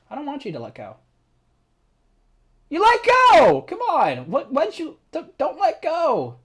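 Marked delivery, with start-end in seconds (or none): 2.7-6.4 high, loud yelling; frantic shout. Real, not acted. Player yelling at a character who lets go. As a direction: plead loudly in panic.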